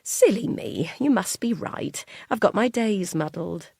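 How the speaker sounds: a hint of a sweet older mum giving in; gentle mum voice. Kind mum giving way to her son, mild and apologetic. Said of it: "the sort of mum who would say".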